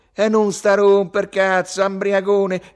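slow, high, loud snarl of abuse; angry shout. A narrator's reading. Ugo curses his drunken friend, angry shout. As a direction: lash out loudly, losing patience. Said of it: "gridò Ugo, già incazzato".

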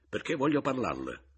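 gruff reply. A narrator's reading. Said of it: "gli risposi ruvidamente".

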